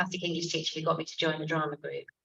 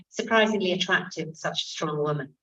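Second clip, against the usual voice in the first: mock casting call. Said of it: "the casting would be something like".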